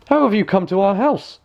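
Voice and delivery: high dwarf voice; dwarfs asking. A narrator's reading. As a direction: raise the voice for the dwarfs. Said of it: "said the dwarfs".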